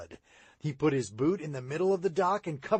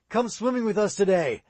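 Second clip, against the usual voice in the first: calls out across the churchyard, louder and higher; calling out; 6 semitones higher, 5 dB louder than usual. A narrator's reading. Boy calling to a friend across the churchyard, called out. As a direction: friendly call from a distance. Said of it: "Sid called".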